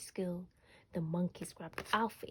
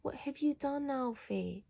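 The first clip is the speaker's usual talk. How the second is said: higher, scolding question; cross mum; 6 semitones higher than usual. A narrator's reading. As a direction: mum scolding her son over the crayon walls. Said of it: "yelled Mum".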